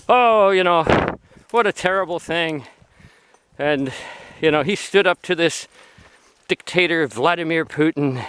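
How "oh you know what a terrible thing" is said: higher-pitched mock lament; mock dismay. Imitating anti-Russian people reacting to a death, mock dismay. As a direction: lightly imitate people deploring it. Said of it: "the anti-Russian people going".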